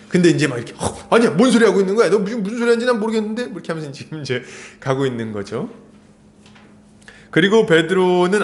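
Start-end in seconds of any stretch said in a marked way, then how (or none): 0.8-3.4 higher, louder, tumbling protest; acted flustered denial. Peter denies knowing Jesus to servant girl, mock flustered protest. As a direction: brush off the accusation in a hurry.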